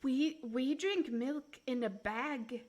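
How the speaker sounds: slow mock Canadian; Canadian accent. Shown as a demonstration. Streamer showing Canadian milk habit, slow Canadian accent. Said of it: "they say bag".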